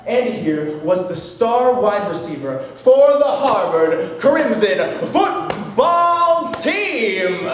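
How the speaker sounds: slow, drawn-out hype with a sung-out finish; grand announcer. Acted. Storyteller introducing the star wide receiver, grand announcer. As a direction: stretch the last words like a stadium announcer.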